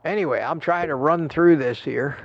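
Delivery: slightly out of breath; a little winded while talking. Real, not acted. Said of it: "Get a little out of breath".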